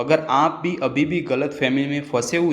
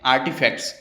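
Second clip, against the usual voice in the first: आर्टिफैक्ट्स with a full Indian T, the form to avoid; Indian accent; faster than usual. Shown as a demonstration. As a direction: Indian English आर्टिफैक्ट्स, hard T. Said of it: "Indian accent में". (भारतीय लहजे में आर्टिफैक्ट्स)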